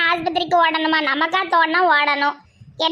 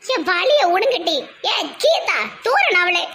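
raised, slow calling across the room; calling out loudly; 4 semitones higher, slower than usual. Acted. Patients' relative calling out rowdily, raised and slow. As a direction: holler at the others to make way. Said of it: "ஏன் இப்படி கத்துறீங்க காட்டுத்தனமா".

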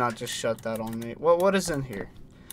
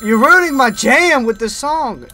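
mock annoyed; 9 semitones higher, 9 dB louder than usual. Real, not acted. Mock complaint at game music.

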